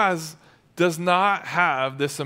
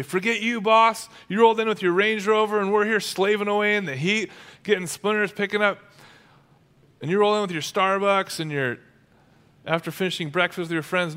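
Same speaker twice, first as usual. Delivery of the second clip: higher, indignant worker's rant; mock resentful griping; 5 semitones higher, faster than usual. Workers griping at the boss who rolls in, mock resentment. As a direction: gripe at the boss in a raised pitch.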